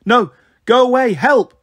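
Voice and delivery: high, loud cry for help; frightened shriek. A narrator's reading. Bliss driving off a barking dog, frightened high shriek. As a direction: shriek in alarm, as a narrator would. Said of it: "Bliss shrieked".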